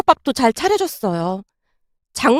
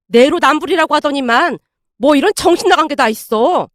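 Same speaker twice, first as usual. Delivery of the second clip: indignant, relentless telling-off; sharp rebuke; 3 semitones higher than usual. Acted. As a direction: lay into a daughter crossly. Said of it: "아내에게 쏘아붙이고 있었고".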